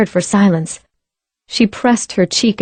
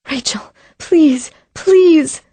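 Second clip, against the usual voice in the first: pleading; 8 semitones higher, slower than usual. Acted. Pleading over body.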